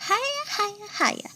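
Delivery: high hammed-up cackle of hiyas; mock laughter. A narrator's reading. Critters laughing at Monsieur Gator, hammed-up laughter. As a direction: laugh it out big like a cartoon. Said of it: "and laugh till they cry".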